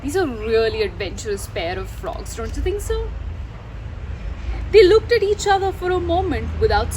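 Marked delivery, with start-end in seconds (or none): none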